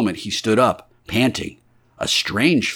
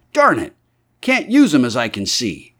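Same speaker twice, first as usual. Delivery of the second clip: frustrated curse; 4 semitones higher, 4 dB louder than usual. Acted.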